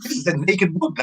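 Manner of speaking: scared twenty-year-old facing a hooker, hammed-up panic; retold panic. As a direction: squeal it like a scared young virgin. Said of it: "I was scared to death".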